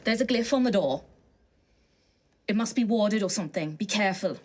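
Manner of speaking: lightly voiced adventurer giving a warning; Gruff. Adventurer warning Ophelia about the glyph on the door, light character voice. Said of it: "I'll turn to Ophelia and go".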